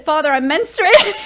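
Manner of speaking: giggling while quoting herself; laughing through it. Retold or imitated. Telling her dad at Christmas, laughing. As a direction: laugh as you blurt it out. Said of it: "And I said".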